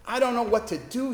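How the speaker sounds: a hint of breaking, pleading sorrow; retold crying. Distraught man apologising to the chaplains, lightly tearful. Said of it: "he cried".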